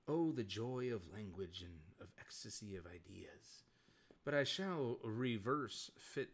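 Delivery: a lightly voiced erudite beast, grand and measured; intelligent beast voice. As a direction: play a cultured monster savouring his own eloquence. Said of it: "do the intelligent beast accent".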